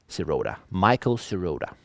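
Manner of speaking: sirota said the English way, si-RO-ta; anglicised "Sirota" with a long stressed O; English reading. Shown as a demonstration. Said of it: "they should read it".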